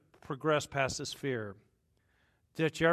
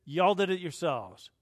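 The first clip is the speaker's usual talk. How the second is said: louder, higher calling them out; y'all did it, hammed-up blame; Paul scolding; 3 semitones higher, 8 dB louder than usual. Paul blaming the crew for their own mess, loud scolding. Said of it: "And he says".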